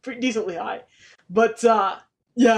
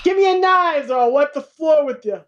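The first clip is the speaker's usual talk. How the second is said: gruff threat; 5 semitones higher, 5 dB louder than usual. Acted. Acting out the knife sharpener.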